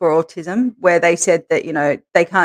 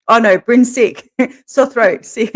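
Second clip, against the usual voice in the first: higher, whiny fake-sick voice; imitating sick son; 4 semitones higher, 4 dB louder than usual. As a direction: mimic a kid faking a sore throat. Son faking sickness, mother imitates.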